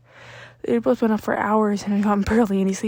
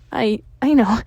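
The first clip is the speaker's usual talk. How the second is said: placating; 8 dB louder than usual. A narrator's reading. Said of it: "Midoriya placated".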